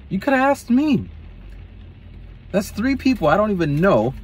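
very high, kindly; a sweet lady's offer; high caring lady voice. Retold or imitated.

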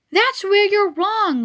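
a high, slow goose cutting in. Acted. Goose to lonely Wilbur, lightly voiced high goose. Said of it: "said a voice".

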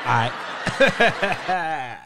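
bruh man greeting. Retold or imitated. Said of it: "do the nod like".

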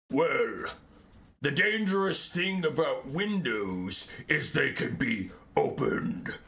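low, slow, menacing ghost voice, dragging out the last words; a looming spectre toying with its prey; deep scary voice. Retold or imitated. Ghost of Malekith threatens Finnabar, low slow scary voice. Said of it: "in a deep, scary voice".

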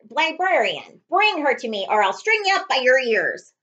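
loud, menacing boss yelling; villain boss. Acted. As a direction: bark the threat like a cartoon villain. Villain boss shouts orders.

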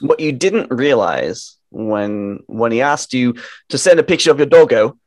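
put-on hammy Australian accent; attempted Australian accent. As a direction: have a shaky go at an Australian accent. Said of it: "that's my attempt at an Australian accent".

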